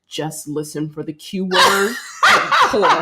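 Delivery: low, tight-jawed inner monologue; tight-jawed actor. Retold or imitated. Voicing the tense bottle-holding actor, tight-jawed. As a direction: talk through a clenched jaw. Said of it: "the guy's jaw is so tight".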